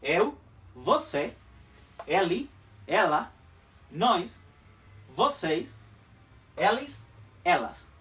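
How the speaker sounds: each pronoun spaced and said slowly; slow pronoun list. Shown as a demonstration. Teacher reviewing pronouns with students, slow and deliberate. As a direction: recite the pronouns slowly with clear pauses. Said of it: "Repetimos entonces los pronombres".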